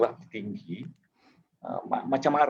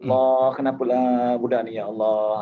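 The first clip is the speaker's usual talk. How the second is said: scolding prayer intonation; 4 dB louder than usual. Shown as a demonstration. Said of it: "intonasinya seperti bapa".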